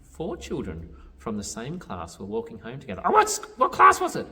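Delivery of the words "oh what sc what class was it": very high, loud puppet voice; high, insistent puppet question; Grover. Pretend. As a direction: butt in like an eager puppet.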